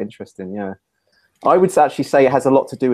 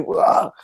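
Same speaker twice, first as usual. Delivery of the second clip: startled yelp. Retold or imitated. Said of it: "you wanna go".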